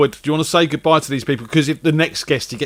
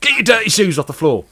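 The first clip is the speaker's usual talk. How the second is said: scolding mother; 5 semitones higher than usual. Acted.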